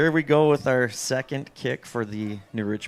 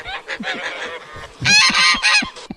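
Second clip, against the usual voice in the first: honking voice; 4 dB louder than usual. Real, not acted. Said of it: "I can't believe you can sound like a goose like that".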